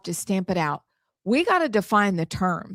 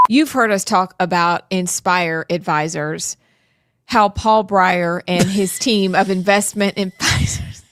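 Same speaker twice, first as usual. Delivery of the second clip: upbeat, louder commercial read; 2 semitones lower, 4 dB louder than usual. Acted. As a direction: sell it like a commercial. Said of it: "a song".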